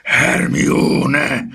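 high, loud alarmed cry; panicked shout. A narrator's reading. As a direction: call the name out in alarm. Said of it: "kiáltották kórusban".

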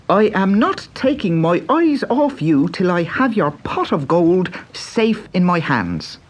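put-on high, eager young Irish boy; bright boyish Irish lad; Pat's boy voice. A narrator's reading. Pat refuses to look away.

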